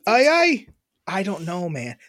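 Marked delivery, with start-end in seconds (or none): 0.1-0.7 higher-pitched mock English accent; badly faked British voice. Shown as a demonstration. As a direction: put on a silly English accent. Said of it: "British English accent".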